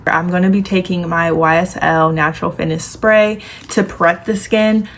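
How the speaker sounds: talking with a retainer in; slight lisp from wearing a retainer. Real, not acted. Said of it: "ignore my lisp. I have my retainer in".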